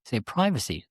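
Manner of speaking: "privacy" with a long eye sound, PRY-vacy; American privacy. Shown as a demonstration. Teacher demonstrating the American "privacy", PRY-vacy. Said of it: "do you say privacy or privacy".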